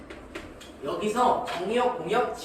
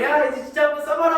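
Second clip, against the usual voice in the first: barked order; 7 semitones higher, 6 dB louder than usual. Retold or imitated. Drill sergeant quoted.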